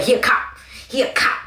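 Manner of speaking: hammed-up, strained accusation; paranoid accusation. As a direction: imitate a paranoid friend sounding the alarm. Friend raving at a homeless man.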